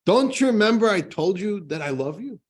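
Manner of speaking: high, loud, wounded protest; an outraged husband who can't believe his ears; indignant, hurt and loud; deeply insulted. Acted. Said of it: "the husband gets so deeply insulted".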